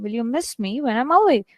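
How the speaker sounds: "miss me" gently stressed; easy model read with stress on "miss"; natural stress. Shown as a demonstration. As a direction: lean lightly on "miss", falling on "away". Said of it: "you know where the stress is happening".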